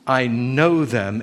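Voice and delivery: slow weight on "know"; emphatic stress. Shown as a demonstration. Preacher repeating the verse's key words, slow stress on "know". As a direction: stretch "know" in "I know them". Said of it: "That's the emphasis".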